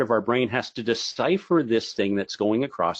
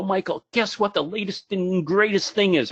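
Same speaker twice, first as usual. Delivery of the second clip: high-pitched excited reveal; imitating an over-excited conference-goer; excited fan; 7 semitones higher than usual. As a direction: gush about the latest big discovery. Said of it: "all excited to show me".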